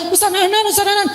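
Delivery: memanggil nama dengan nada jauh lebih tinggi; teriak memanggil. Retold or imitated. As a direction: teriak girang memanggil ustadz berulang. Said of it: "nggak usah teriak-teriak". (penumpang memanggil-manggil ustadz di perempatan, berteriak)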